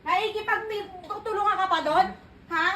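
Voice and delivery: sharp scolding interrogation, pressing each one; angry scolding. Real, not acted. Mother confronting the kids over the video, angry scolding. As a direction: demand answers, jabbing each question. Accusing child of lying.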